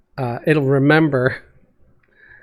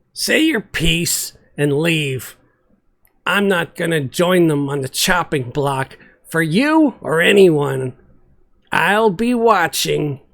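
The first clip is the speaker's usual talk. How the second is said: curt jailer; 3 semitones higher than usual. Acted. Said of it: "The jailer was very curt".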